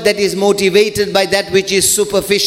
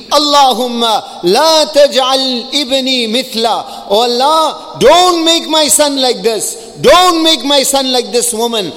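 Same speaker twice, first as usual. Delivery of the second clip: mother's plea; 4 semitones higher than usual. Retold or imitated. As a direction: beg God for her son, pitched up and pressing. Mother's pleading prayer voiced.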